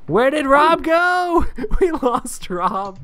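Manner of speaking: calling out for a missing cohost; surprised and amused. Real, not acted. Host missing.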